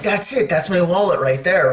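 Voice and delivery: lightly acted joy at finding the wallet; retold excitement. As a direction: blurt out the discovery with delight. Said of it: "I'm so excited".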